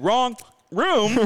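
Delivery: a fed-up guest repeating himself loudly; exasperated repeat. Retold or imitated. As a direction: insist with rising exasperation. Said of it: "I said".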